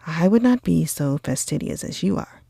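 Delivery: eager exclamation. Acted. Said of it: "cried Bingley".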